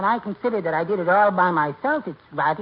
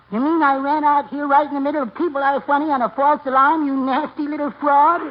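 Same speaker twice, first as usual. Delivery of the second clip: louder, higher mock scolding of a wife; 5 semitones higher, 4 dB louder than usual. Little husband mimics his big wife scolding him: mock scolding. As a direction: play the angry wife, ranting and indignant. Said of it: "And she said".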